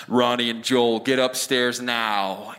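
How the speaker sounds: low, slow imitation of an ominous father; stern dad. Father summons his sons upstairs, low and stern. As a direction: imitate dad's warning tone, drawn out and low. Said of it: "that tone of voice from my dad".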